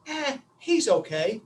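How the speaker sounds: slow, lukewarm shrug of a reply; slow, so-so verdict; noncommittal. Retold or imitated. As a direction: draw it out with an unconvinced shrug. Acting the unanimous lukewarm answer.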